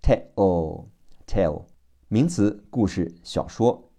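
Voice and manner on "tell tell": "tell" ending in an o-like L; "tell" sounded as teh-o, the L unreleased; dark final L. Shown as a demonstration. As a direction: hold the tongue tip up to end "tell". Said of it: "舌尖点住上齿根不分开".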